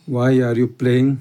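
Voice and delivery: very slow, word by word; slow dictation. Shown as a demonstration. Teacher dictating the answer to students, very slow. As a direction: spell it out slowly for the class to copy. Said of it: "teacher dictates model sentence".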